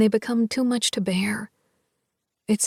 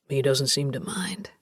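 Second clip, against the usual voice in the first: low voice with a smile; smiling voice; 9 semitones lower than usual. A narrator's reading. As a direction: let a smile in. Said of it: "with a smile in his voice".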